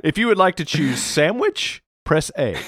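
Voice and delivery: slow, high automated-menu voice; phone menu voice. Pretend. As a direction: read it like a phone menu prompt.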